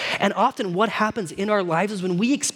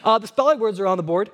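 put-on tattletale kid; 3 dB louder, faster than usual. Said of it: "he's the one that says".

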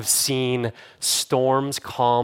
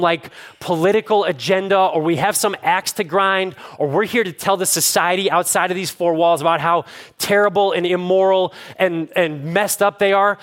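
raised, higher-pitched sermon delivery; impassioned preaching; 5 semitones higher, 3 dB louder than usual. Real, not acted. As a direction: preach it with rising urgency, hitting the key words. Preaching builds to a climax.

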